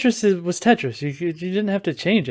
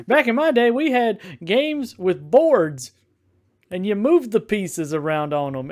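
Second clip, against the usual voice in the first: put-on slow, higher grumpy old-timer; old man voice; 4 semitones higher than usual. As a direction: play up a cranky old man. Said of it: "how much does he sound like an old man".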